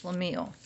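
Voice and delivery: Schlemiel with a long ee, like reveal; rhymes with reveal. Shown as a demonstration. Reader shows the dictionary pronunciation, Schlemiel rhyming with reveal. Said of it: "to rhyme with reveal".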